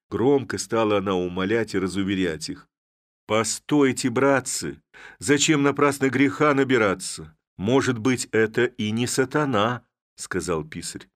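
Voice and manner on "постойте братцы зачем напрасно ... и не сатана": raised pleading. Acted. Clerk pleads to spare her.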